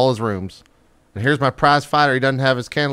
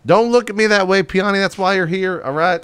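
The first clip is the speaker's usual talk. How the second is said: higher and louder irritated snap; exasperated order; 8 semitones higher, 4 dB louder than usual. Acted. Boss scolding Peony for her look, loud and irritated. Boss snaps at crew member.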